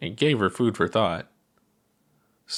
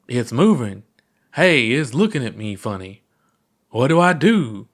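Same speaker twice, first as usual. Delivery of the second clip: mock alarm; 3 semitones higher, 4 dB louder than usual. Statue looks at puppet pilot.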